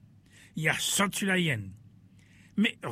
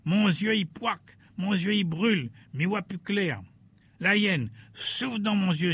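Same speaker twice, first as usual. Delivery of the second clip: boar crying out; 5 semitones higher than usual. Acted. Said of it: "Sanglier l'a crié".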